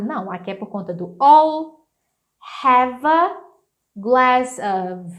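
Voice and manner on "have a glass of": "have a" and "glass of" as two joined chunks; linked words. Shown as a demonstration. Teacher explaining the speed, "have a", "glass of" linked. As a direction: say "glass of" as if one word. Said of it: "Isso traz agilidade".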